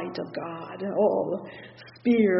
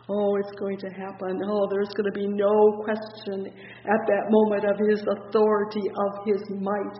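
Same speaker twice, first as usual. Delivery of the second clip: ordinary delivery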